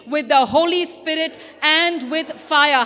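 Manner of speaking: two voices reading in unison; man and woman together. Real, not acted. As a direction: say it as one, side by side. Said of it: "We're going to say together".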